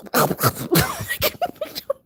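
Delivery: high mock choking noise; comic gasping choke, half laughing; imitated choking. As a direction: sputter as if coughing up water. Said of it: "I'm choking".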